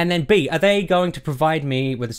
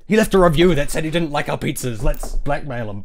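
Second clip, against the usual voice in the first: scheming pizza crew; 4 dB louder than usual. Retold or imitated. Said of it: "looks around".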